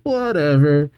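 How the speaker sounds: dismissive whatever. Acted. Gold brushing off his mistake.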